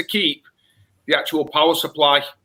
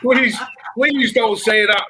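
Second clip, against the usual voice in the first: slow, higher, drawn-out mock plea; mock pleading; 5 semitones higher, 3 dB louder, much slower than usual. Pleading with a friend who called his kit a doorstop, mock anguished and slow. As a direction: beg him to take it back, hamming up the despair.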